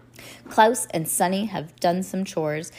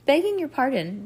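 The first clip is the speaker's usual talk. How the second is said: higher, sudden interjection; 6 semitones higher than usual. A narrator's reading. Orphan interrupting the adults, suddenly. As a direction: cut in with a lightly raised pitch. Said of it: "Violet said suddenly".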